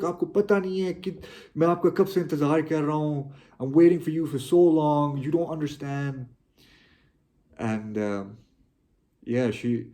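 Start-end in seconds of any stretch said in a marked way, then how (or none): 0.0-6.3 higher and louder, mock angry yelling in Hindi and English; retold shouting. Son telling off his mother for coming back late, raised angry voice. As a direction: scold her for keeping you waiting. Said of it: "I just started shouting at her, screaming at her".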